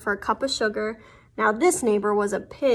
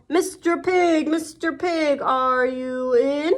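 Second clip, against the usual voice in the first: calling out; 3 semitones higher, slower than usual. Acted. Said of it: "I called".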